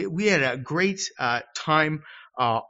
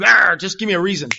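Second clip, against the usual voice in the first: bad-mood grumble; 6 dB louder than usual. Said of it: "if I'm in a bad mood".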